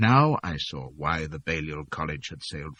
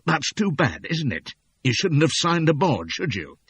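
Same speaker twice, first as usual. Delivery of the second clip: menacing sea captain; 3 semitones higher than usual. Acted. Captain Spring voiced in story.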